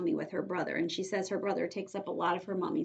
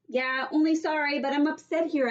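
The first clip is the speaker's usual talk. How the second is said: put-on high, louder upset little girl; upset Junie B; 7 semitones higher, 6 dB louder than usual. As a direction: plead your case, upset. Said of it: "I explained".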